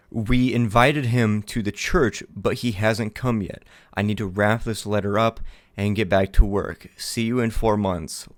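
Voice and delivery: measured story-like reading; reading a written account aloud; letter read aloud. Acted. Reads an in-game letter aloud.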